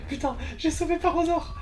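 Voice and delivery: high-pitched triumphant yell; excited shout. Real, not acted. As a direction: shout it out in victory. Triumphant after escaping danger.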